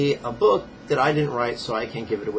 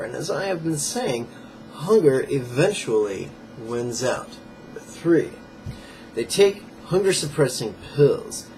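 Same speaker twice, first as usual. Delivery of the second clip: emphatic, slightly raised read-aloud voice; book reading aloud. Acted. Fitness teacher reading viewers a page from a diet book, emphatic read-aloud. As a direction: read the page out with firm emphasis on key words.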